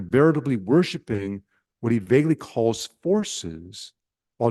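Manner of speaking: measured, deliberate literary reading with weighted pauses; reading aloud. A narrator's reading. Preacher reading a demon's letter to a retreat group, in deliberate read-aloud style. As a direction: read it out phrase by phrase.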